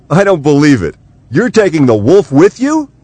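high, loud disbelief; astonished cry. Acted. Matt learns Scott takes the wolf, a high astonished cry. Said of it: "cried Matt".

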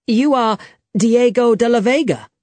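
amazed recognition. A narrator's reading. Young man recognises Diego at the cave, amazed. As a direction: pitch it up in astonished realisation.

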